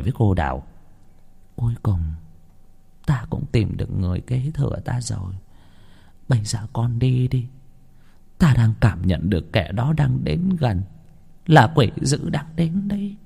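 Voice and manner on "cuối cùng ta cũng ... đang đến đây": put-on old woman's warning. Old woman warns Đào.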